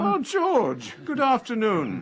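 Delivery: high-pitched hello to a friend; delighted greeting. Acted. Resident welcoming a friend who just arrived, delighted high greeting. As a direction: greet him with a high, lifted voice.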